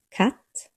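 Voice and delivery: "Katt" with a hard K; crisp K in "Katt". Shown as a demonstration. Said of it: "Hard K".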